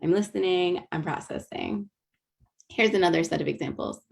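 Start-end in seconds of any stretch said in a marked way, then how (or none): 0.0-1.9 listening calm. Shown as a demonstration. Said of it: "It's like".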